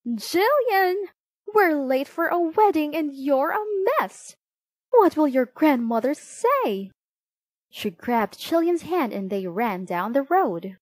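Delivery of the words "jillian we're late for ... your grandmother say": high, loud yell of a frantic mother. A narrator's reading. Mother running out to Jillian, late for a wedding, yelling. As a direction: yell it higher and louder, as a scolding parent.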